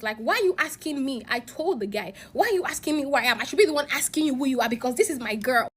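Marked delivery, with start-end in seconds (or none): 0.2-1.2 retold agitated challenge, pitched higher; agitated, raised voice. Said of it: "getting agitated and I raised my voice". 2.3-5.7 retold indignant challenge; agitated, raised voice. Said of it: "getting agitated and I raised my voice".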